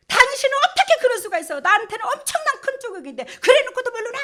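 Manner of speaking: loud, high-pitched mock tirade; hammed-up aggrieved wife, scolding at full volume; acted wifely outrage. Wife reproaching husband who forgot the morning's hurt, loud acted outrage.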